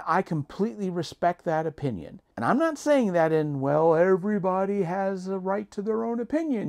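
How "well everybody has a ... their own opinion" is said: dry, eye-rolling sarcasm; sarcastic. Pretend. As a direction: say it like you don't mean it. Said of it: "he said sarcastically".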